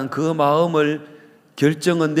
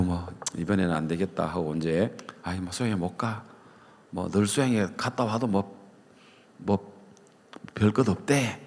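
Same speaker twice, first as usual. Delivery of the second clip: mock weary excuse; 4 semitones lower, 7 dB quieter than usual. Voiced worker giving up, quiet.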